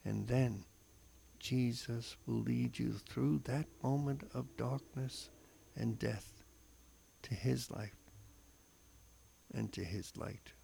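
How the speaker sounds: slow, solemn reflection read aloud; devotional reading. Acted. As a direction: read it like a heartfelt homily. Reads a scripture reflection.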